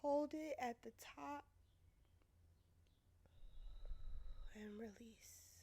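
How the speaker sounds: soft, calming breath-coach voice; hushed meditation guide; guided breathing. Acted. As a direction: gently lead them through a breath, leaving long pauses. Leads a breathing exercise.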